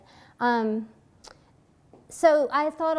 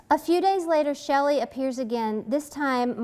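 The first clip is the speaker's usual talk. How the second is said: measured novel reading voice; story reading; 2 semitones higher than usual. A narrator's reading. Author reading her scene aloud, even narration. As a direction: read the passage to the audience.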